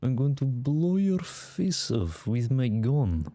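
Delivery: put-on Russian accent. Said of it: "How do I do a Russian accent?".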